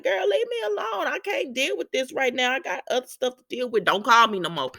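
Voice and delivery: put-on high, exasperated girl leave me alone; annoyed brush-off. Maxie brushing off Lucy's calls, high and fed up. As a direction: wave her off, fed up.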